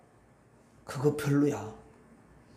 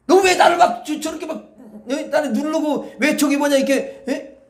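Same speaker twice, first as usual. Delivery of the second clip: mock angry scolding; 4 semitones higher, 5 dB louder than usual. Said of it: "막 이렇게 말하지 않더라고".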